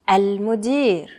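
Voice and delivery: Al-Mudir slowly, with a drawn-out ending. Shown as a demonstration. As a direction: say Al-Mudir at a slow learner's pace.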